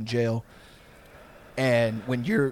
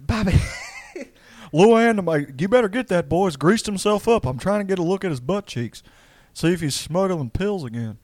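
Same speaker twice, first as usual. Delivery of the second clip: higher, louder Texan dad; Hank Hill impression; 7 semitones higher, 4 dB louder than usual. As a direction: complain like an exasperated cartoon dad.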